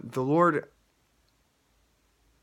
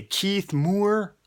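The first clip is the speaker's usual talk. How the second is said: raised, announcer-like name call; 8 semitones higher than usual. Retold or imitated. Announcer draws a contest winner's name, calling it out.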